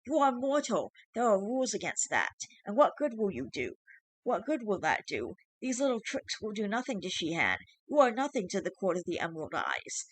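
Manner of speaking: high, shrill, scornful creature voice; defiant changeling. Acted. Changeling defying the father, shrill and scornful. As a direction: scorn the mortal's tricks.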